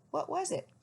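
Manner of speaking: high owlet voice; little owl asking, pitched high. A narrator's reading. Owlet asking his father, high.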